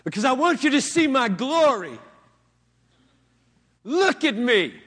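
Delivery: lightly voiced arrogant pulpit boast; mock vain preacher. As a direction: play the vain speaker demanding attention. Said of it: "If I came into this pulpit and said".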